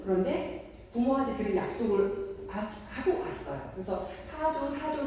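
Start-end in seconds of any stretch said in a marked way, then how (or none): 4.2-5.0 put-on high, mild childlike pleading; begging child. Child asking parent to buy something, mildly pleading. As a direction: beg like a small kid, not forcefully. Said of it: "저번처럼 강하게는 안 해요".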